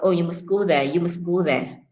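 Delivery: MUST light and quick, run into "go"; everyday MUST without emphasis; unstressed MUST. Shown as a demonstration. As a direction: let MUST pass unstressed. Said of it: "normally you don't stress the word must".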